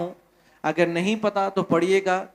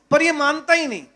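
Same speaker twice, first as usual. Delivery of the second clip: higher, pleading donkey voice, lightly voiced; a foolish donkey whining to the king; donkey's voice; 5 semitones higher than usual. गधा राजा से शिकायत करते हुए, ऊँची ढीठ आवाज़ में.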